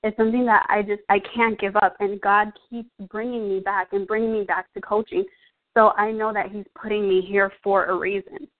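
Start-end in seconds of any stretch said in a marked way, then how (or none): 2.0-8.5 a little winded, breathy between phrases; out of breath. Real, not acted. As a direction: talk while catching your breath. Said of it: "Sorry, I'm out of breath".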